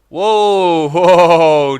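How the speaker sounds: loud, drawn-out whoas of thrill; real excitement; excited whoa. Real, not acted. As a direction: gasp with delight as you take off. Suddenly flying in hub.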